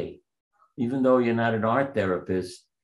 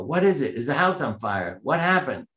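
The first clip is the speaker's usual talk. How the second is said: yelling; 4 semitones higher than usual. Retold or imitated. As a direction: call out in alarm from the car. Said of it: "So I yelled out the car window".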